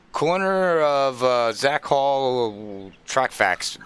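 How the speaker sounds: slow, halting name with a long stall; groping for the name. Real, not acted. Host stalls mid-broadcast forgetting his segment title, halting. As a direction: drag it out while trying to remember. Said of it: "I just had a brain fart".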